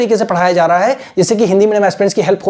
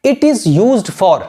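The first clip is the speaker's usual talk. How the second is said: very slow, word by word; teacher giving a model phrase; slow dictation; much slower than usual. Shown as a demonstration. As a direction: dictate slowly for writing. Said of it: "आपको क्या बताना है".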